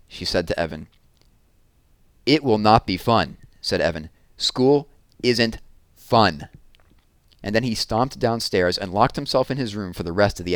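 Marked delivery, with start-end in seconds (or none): 2.3-6.5 sulky refusal. Acted. Evan sulks angrily.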